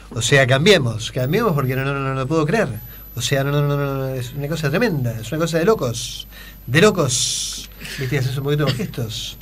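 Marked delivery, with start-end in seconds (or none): 0.1-7.7 Macri impression. Shown as a demonstration. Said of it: "a Mauricio Macri y decís".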